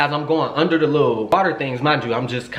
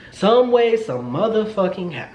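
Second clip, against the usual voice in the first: mock exasperation; 7 semitones higher, slower than usual. Mock exasperation at being left alone.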